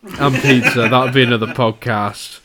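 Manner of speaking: muffled behind a hand; talking through fingers; hand over mouth. Real, not acted. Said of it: "Get your hand away from your mouth when you're speaking".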